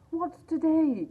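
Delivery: called out loud and high from the window; cried out. A narrator's reading. Scrooge calling down to a boy from his window, eager shout. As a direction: shout down to the street in joy. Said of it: "cried Scrooge".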